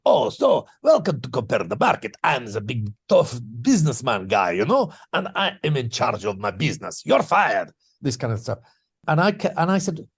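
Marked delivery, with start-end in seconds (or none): 0.0-7.7 lightly voiced bossy businessman; mock tough businessman. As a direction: ham up a self-important tycoon.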